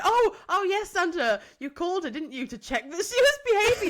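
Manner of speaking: high, laughing voice that barely holds; laughing through words. Real, not acted. Mum quoting her own answer to Santa, laughing hard.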